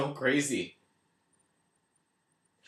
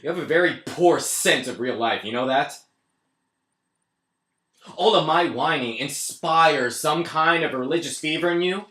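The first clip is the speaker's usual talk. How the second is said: sarcastic tirade; 3 semitones higher, 5 dB louder than usual. Acted.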